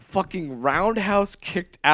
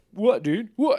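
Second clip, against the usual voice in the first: higher, aggressive, chest-puffing bro voice; 5 semitones higher than usual. Retelling a confrontation, imitating Alex as a toxic douchebag. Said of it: "toxic douchebag".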